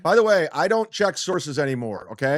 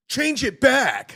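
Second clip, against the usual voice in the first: high, drawn-out mocking yell; mock angry yell; 9 semitones higher, 4 dB louder, slower than usual. Host mocks a boss yelling at employees, mock angry yell. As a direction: throw the order back, pitched way up and slow.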